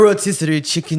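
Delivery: mock Haitian accent. Co-host asked to do the accent, mock Haitian accent. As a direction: put on a hint of a Haitian accent. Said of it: "do a Haitian accent for".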